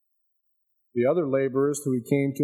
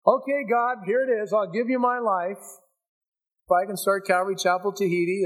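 higher pitched, hammed-up haggling with God; mock bargaining prayer; 4 semitones higher than usual. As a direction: play a whiny bargainer setting terms.

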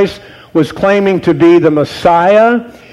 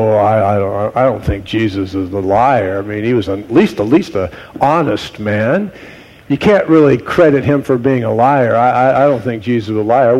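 mock skeptic; 6 semitones lower than usual. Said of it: "You go".

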